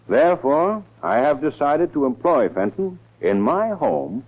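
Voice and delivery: formal, measured public statement read. Acted. District attorney reading his press statement aloud, formal and deliberate. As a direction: try out the words like a press release.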